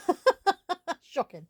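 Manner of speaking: high laughing squeal. Real, not acted. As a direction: laugh out the last word. Sees the dusty tin.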